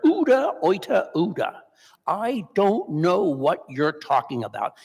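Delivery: mock scream of denial that fades out; a sermon's retelling of Peter's shouted denial; retold scream. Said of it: "he screamed at her".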